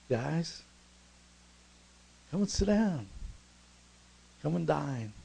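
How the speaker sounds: lightly lifted, kindly call; smiling invitation. Acted. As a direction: invite friends over with a smile, unhurried. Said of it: "I can see him smiling here".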